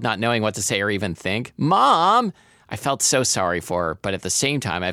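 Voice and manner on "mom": high, loud helpless cry; wail. A narrator's reading. Daughter not knowing what to think, wailing. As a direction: wail the word out. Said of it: "I wailed".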